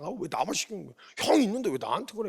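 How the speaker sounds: mock grumbling to oneself; acted-out peevish complaint; irritated grumbling. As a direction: grumble like a sulking son trudging off. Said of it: "이러면서 막 신경질 온갖 부리고".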